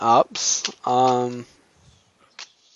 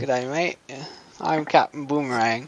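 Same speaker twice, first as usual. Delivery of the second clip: hammed-up, badly faked Australian accent; terrible Australian accent; 4 dB quieter than usual. Podcaster playing Captain Boomerang for laughs, bad Australian accent. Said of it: "That was a terrible accent".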